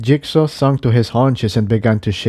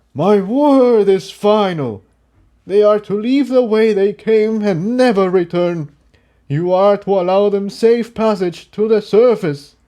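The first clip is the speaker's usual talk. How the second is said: firm final ruling; 10 semitones higher than usual. Acted. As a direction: leave no room for argument.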